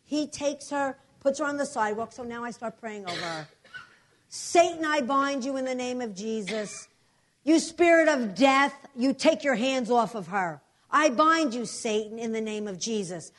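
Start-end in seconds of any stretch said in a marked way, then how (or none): 4.3-13.3 loud, forceful rebuking of Satan; preaching prayer. Retold or imitated. Pastor rebukes death over the woman on the sidewalk, forceful preaching. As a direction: command the spirit of death to leave.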